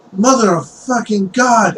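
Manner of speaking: put-on high-pitched outburst of a boy who spilt his bucket; exasperated kid swearing; startled cursing. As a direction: curse out loud in sudden dismay. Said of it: "you hear him just go like".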